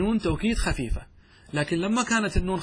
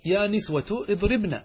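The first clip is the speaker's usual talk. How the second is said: slow demo; 5 semitones higher, slower than usual. Shown as a demonstration. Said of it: "الأصل أنك تقول إيش؟".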